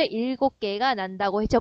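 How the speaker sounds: usual speaking voice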